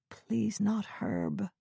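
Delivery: slow, breathless whisper; whispered plea. Acted. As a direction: whisper it in dread, slowly. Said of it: "she whispered".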